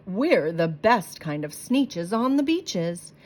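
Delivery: slow, boastful brag; bragging sneeches. Acted. Star bellies bragging to the plain ones, slow and smug. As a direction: lord it over the beach. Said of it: "would brag".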